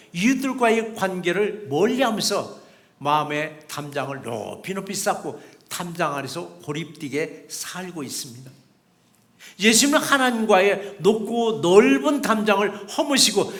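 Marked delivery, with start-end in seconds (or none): none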